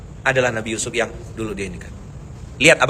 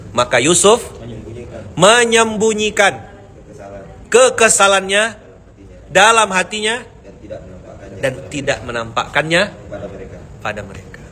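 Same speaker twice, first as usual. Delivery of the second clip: slow, emphatic; 3 semitones higher than usual. Acted. Preacher stresses the meaning of the verse, slowly and higher. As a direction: stretch each word for weight.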